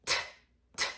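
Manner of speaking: T tapped at the front teeth; tappy T. Shown as a demonstration. Teacher showing the wrong tappy sound. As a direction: tap the tongue for a front T. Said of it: "we make it tappy".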